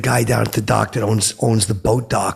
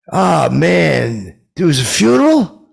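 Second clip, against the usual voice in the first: high, loud incredulous question; shouted mock disbelief; asked as a question; 7 semitones higher, 7 dB louder, slower than usual. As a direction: ask it instead of telling it. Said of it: "I said it like that ... but I kinda asked it".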